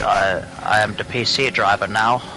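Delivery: light put-on Danish accent; lightly Danish-accented haughty driver. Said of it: "that's my impression of a Danish accent".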